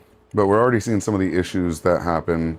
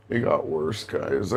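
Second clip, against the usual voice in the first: disappointed; 3 semitones lower, 6 dB quieter, slower than usual. Real, not acted. Speed test came out worse.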